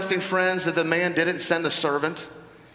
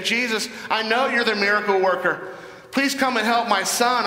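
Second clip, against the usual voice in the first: higher-pitched pleading, mildly acted; desperate plea; 4 semitones higher than usual. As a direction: beg for help as a desperate father. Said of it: "crying out of the man who's in desperate situation".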